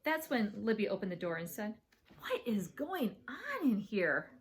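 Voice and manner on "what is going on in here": slow, stressed, scandalized question; shocked demand. Acted. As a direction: demand an answer, drawing out the words. Older sister bursts in on fight.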